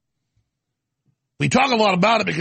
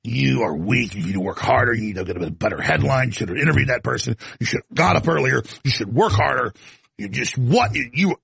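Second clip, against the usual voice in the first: lower, scolding inner voice; a low voice tearing into himself; harsh self-scolding; 6 semitones lower than usual. Retold or imitated. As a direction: berate yourself in a low voice. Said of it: "where I'm just like".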